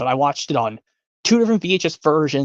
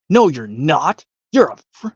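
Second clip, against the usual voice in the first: arguing kitten; 4 dB louder than usual. Retold or imitated. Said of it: "Yep, from the Aristocats".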